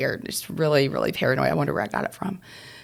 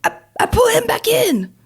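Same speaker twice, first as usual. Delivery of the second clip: grandmother voice; 5 dB louder than usual. Retold or imitated. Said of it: "She goes".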